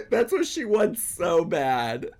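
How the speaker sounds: laughing through the words; amused laughter. Real, not acted. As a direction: giggle as you say it.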